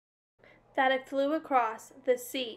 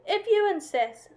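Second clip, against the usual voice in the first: high insect voice; 9 semitones higher, 5 dB louder than usual. A narrator's reading. Yellow jacket accepts fight.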